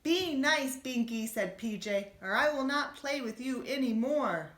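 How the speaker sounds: high, loud scolding warning; stern warning. Acted. Bunny warning his naughty cousin, loud and stern.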